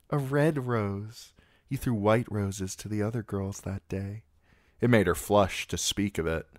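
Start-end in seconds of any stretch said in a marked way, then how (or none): 0.1-1.3 high, slow, savouring a red rose; girlish lingering. A narrator's reading. Sansa treasures the memory, slow and high. 1.7-4.2 put-on high girlish voice, wistful and eager; a smitten girl remembering, voice lifted high; eager young girl. A narrator's reading. Sansa reminds Sir Loras of the tourney, high and eager.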